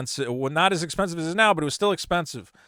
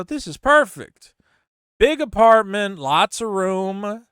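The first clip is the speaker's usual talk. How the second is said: high, slow, loud delighted gush; thrilled; 3 semitones higher, 6 dB louder, slower than usual. Retold or imitated. Renter touring the cheap apartment, slow thrilled gush. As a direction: savor it like the dream home.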